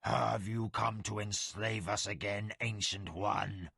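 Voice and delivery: defiant, holding back a growl; snarling tiger warrior. Acted. Chuan asks Tomas.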